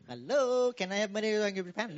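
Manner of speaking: high, quick pleading voice; mock timid asker. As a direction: sheepishly ask for cash. Mock begging for money.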